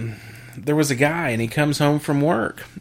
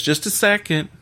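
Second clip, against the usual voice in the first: higher-pitched wife's quick aside; mock stalling; 7 semitones higher than usual. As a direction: lightly imitate the wife putting him on hold. Wife stalls customer in joke.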